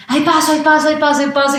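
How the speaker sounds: high, rising little cries of ay, paso; mock pleading call. To the waiting drivers, a high mock plea. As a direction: squeeze through while begging way. She pushes through crowded cars.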